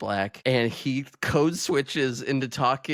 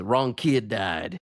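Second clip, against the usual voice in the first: deadpan movie quote; slower than usual. Retold or imitated. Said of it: "one of us says".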